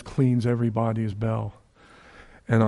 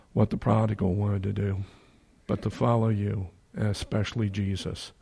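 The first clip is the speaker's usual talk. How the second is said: prayer. Acted. Closing prayer.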